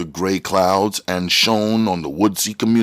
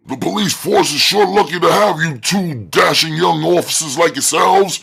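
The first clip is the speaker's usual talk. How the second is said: put-on heavy country accent; 9 semitones higher, 6 dB louder than usual. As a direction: boom it like a country sheriff. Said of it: "he said with a heavy country accent".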